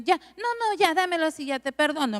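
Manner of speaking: high mock-condescending client voice; mimicking clients.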